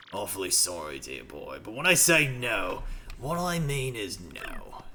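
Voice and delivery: slow firm refusal; stern old sailor. Acted. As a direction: put your foot down, old man.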